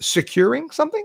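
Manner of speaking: worried voice, pitch jumping way up high.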